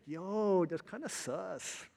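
drawn-out mock gamer kid; lightly mimicked schoolboy slang; imitated kid slang. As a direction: stretch it slowly like a kid gamer. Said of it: "I don't talk like that. That's weird".

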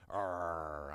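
low, drawn-out mock growl. Pastor recalling two girls' fights, mock growl. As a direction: growl in imitation of squabbling.

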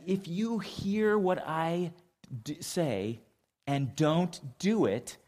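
voicing Jesus. Preacher voicing Jesus to the congregation, slow and earnest. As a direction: lay out the parable slowly, like Jesus teaching. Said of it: "he said".

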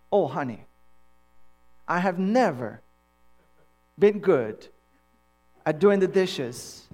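mock-solemn confession with long pauses; exaggerated humility. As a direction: plead hopeless incompetence to your wife, hammed-up. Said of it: "it's called exaggerated humility".

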